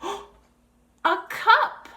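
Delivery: put-on a sudden thrilled find for a baby; excited discovery. Shown as a demonstration.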